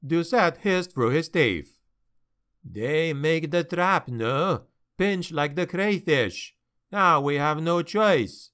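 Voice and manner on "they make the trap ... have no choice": put-on lightly French-accented captain, grim; a hint of a French trader realising the trap; a hint of a French accent, resigned.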